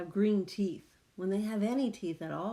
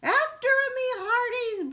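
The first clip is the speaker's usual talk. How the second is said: much higher, louder captain's order; pirate command; 8 dB louder than usual. Acted. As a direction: command the crew to charge. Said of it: "Braidbeard commanded".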